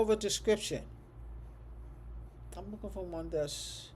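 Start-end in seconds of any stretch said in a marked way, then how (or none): 2.5-3.9 talking through a yawn; soft words stretched by a yawn. Real, not acted. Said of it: "I don't know why I'm yawning".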